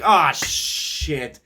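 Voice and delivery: mock exasperated outburst; pissed-off retelling. Imitating Keith on seeing the flat tire, mildly pissed off. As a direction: act out a driver losing it, moderately. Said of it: "He's pissed. He is spazzing".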